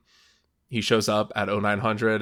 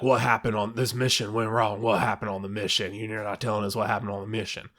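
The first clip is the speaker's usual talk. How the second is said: lightly put-on husky interrogator; husky Seagal mumble. Imitating the actor questioning a team member, husky mumble. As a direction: run the words together in a half-hearted mumble. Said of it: "in his huskiest, mumbliest, hardest to understand voice".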